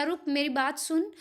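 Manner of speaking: रुक, brief stop, then मेरी बात सुन; pause after रुक. Shown as a demonstration. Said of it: "रुक के बाद थोड़ा सा पॉज".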